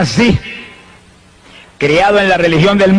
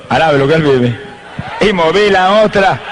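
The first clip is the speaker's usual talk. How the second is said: laughing; slower than usual. Real, not acted. Laughing during healing story.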